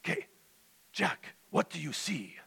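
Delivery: put-on high, deliberate Russian-accented question; probing Russian Santa voice; North. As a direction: prompt him gently in a Russian accent, pausing between words. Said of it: "North says to Jack Frost".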